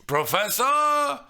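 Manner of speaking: loud, drawn-out hail; calling out. Real, not acted. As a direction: hail him like a taxi. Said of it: "as if summoning a taxi".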